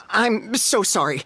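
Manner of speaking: slow, drawn-out apology; apologetic. Acted. Bathhouse owner apologizing to guests, slow and flustered. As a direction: grovel a little as he realizes. Realizes who signed the pass.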